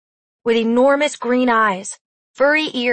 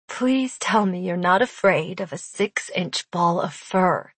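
teasing; 3 semitones lower, 4 dB quieter than usual. Acted. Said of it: "Adeline teased".

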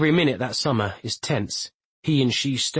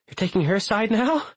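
indignant; 9 semitones higher than usual. Acted. Mother's indignant retort.

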